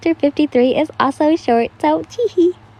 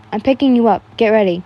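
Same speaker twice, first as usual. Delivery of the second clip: loud; 4 dB louder, faster than usual. Acted. Inosuke repeats insistently.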